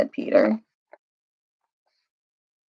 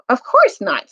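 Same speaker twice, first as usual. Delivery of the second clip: shocked; 5 semitones higher, 3 dB louder than usual. Acted. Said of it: "in a very shocked voice".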